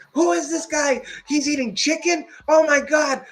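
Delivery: very high, squealing disbelief; mock stunned commenters. The livestream viewers, a very high squealed disbelief. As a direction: play shocked viewers in the chat. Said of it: "They were like".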